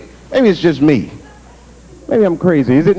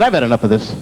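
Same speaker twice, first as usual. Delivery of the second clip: low, weary prosecutor line; lowered, fed-up courtroom voice; 8 semitones lower, faster than usual. Acted. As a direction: drop the voice like a tired lawyer.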